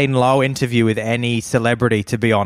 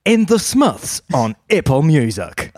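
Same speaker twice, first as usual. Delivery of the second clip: put-on Kiwi accent; 4 semitones higher, 3 dB louder than usual. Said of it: "in the Kiwi accent".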